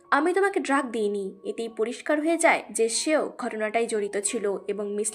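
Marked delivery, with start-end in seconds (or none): 0.1-1.4 lightly voiced frightened denial; a hint of panic, understated; scared denial. A narrator's reading. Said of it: "মিস চ্যান ভয় পেয়ে যায় এবং বলে".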